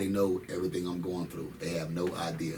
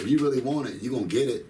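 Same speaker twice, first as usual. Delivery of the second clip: pep talk; 4 semitones higher, 5 dB louder, faster than usual. Retold or imitated. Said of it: "That's how I be talking".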